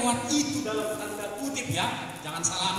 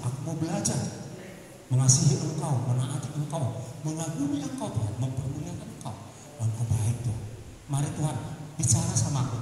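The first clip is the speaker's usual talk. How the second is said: low, murmured talk to God, not a whisper; a hint of private prayer, pitched low; demo of intimate prayer; 11 semitones lower, faster than usual. Shown as a demonstration. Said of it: "bisik-bisik aja sama Tuhan".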